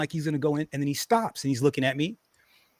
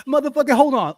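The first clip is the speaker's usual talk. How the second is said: retold anger; 8 semitones higher, 6 dB louder than usual. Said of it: "I was fired up".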